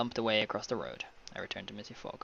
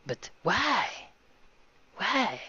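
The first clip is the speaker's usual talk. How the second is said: high-pitched, hammed-up "why"; bewildered questioner; 9 semitones higher, much slower than usual. Traveler questions the grumbling man, high and bewildered. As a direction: plead for a reason in a put-on high voice. Voicing the narrator's startled question.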